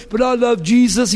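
lightly imitated Southern hillbilly accent; a hint of Southern country voice. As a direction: put on a simple Southern believer's accent. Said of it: "he talks Southerner".

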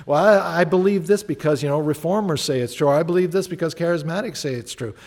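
lightly mock a label-bound believer; mocking system Christian. Preacher parodying system Christians for his congregation, lightly mocking. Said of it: "There's so many system Christians".

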